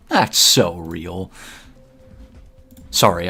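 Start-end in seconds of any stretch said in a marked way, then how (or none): 0.1-1.3 slow, drawn-out goofy voice. Real, not acted. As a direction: stretch it out in a mildly silly voice. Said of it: "in a, like, goofy voice".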